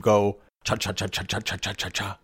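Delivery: quiet rapid cha cha chomping; soft rhythmic cartoon munching; corn eating sound effect. Shown as a demonstration. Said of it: "put the sound effect in".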